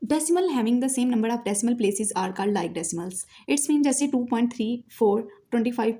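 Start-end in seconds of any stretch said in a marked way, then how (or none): 0.0-3.1 dictation reading. Shown as a demonstration. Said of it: "reads definition from the book".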